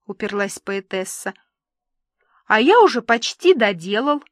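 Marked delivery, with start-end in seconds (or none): 2.5-4.2 gloating. Acted. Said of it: "заликовал Иван".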